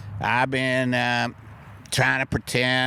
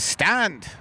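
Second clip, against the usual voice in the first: watch command; 6 semitones higher than usual. Retold or imitated. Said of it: "It says".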